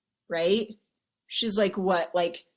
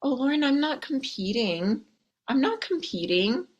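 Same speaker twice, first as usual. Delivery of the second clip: higher, insistent mock denial; defensive denial; 5 semitones higher than usual. Coach imitates a listener insisting, higher and defensive. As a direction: protest too much in a higher voice. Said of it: "they disappear".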